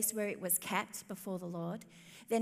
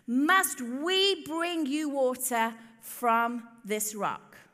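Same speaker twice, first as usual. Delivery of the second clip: exasperated Moses; 4 dB louder, much slower than usual. Acted. Moses frustrated with grumbling people.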